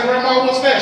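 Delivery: high, loud incredulous question; mock disbelief. Grandson staring at pizza toast, high mock disbelief. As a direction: shriek it up high in mock shock.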